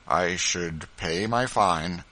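slow, gentle father; a gentle, unhurried reply from father to son; gently. Acted. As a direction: say it gently and slowly. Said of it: "said Simeon gently".

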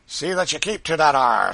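forceful, rough command; menacing order. A narrator's reading. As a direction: bellow a threat like an overseer. Driver threatens the woman.

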